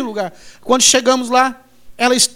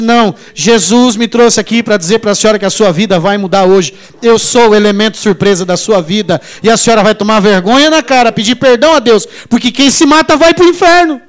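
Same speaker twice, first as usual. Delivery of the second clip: stern loud rebuke; 4 dB louder than usual. Retold or imitated. Pastor rebuking a suicidal woman.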